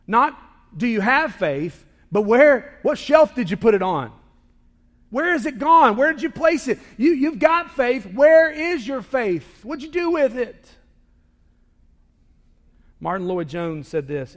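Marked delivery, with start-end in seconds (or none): 0.1-10.8 preaching at full force. Real, not acted. Preacher presses the question hard.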